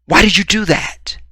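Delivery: high, hurt outcry of disbelief; acted disbelief. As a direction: protest in a high, startled voice. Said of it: "she's gone further than you thought".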